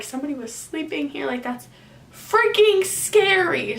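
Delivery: hushed, then a sudden high burst of fear; scared thought. Retold or imitated. Retold scared thought to herself.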